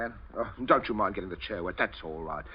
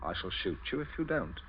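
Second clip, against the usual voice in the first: quiet threat; 9 dB quieter than usual. Acted. Captain threatens at gunpoint.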